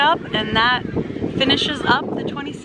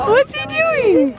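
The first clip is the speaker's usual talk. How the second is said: laughing; 14 semitones higher, 4 dB louder, slower than usual. Real, not acted. Amused at horse wiping sweat.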